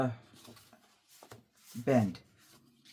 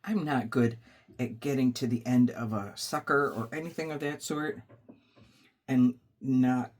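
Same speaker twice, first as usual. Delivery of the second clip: crunching candy. Real, not acted. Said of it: "sorry if I'm crunching and you can hear it".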